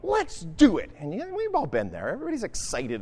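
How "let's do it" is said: eager crowd. Retold or imitated. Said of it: "And they all say".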